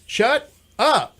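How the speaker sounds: high disbelieving shut up; incredulous shut up. Retold or imitated. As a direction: squeal it in disbelief. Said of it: "It's all in the inflection".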